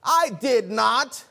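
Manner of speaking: slow mock shout, each word stretched; yell from down the hall. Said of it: "a voice yelled from another room".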